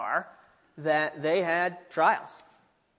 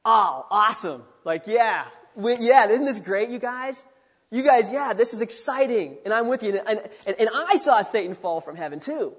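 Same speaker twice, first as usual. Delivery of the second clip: higher, louder eager cheer; excited joining in; 3 semitones higher, 5 dB louder than usual. Acted. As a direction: share their joy enthusiastically. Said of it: "third way you could interpret".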